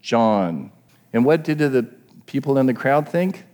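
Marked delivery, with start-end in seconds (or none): 0.0-0.7 "John" set apart after a pause, dropping low; stress on John. Shown as a demonstration. Preacher naming the emphasis, "John" alone and falling. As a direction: give "John" its own beat, falling. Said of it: "the emphasis is on the".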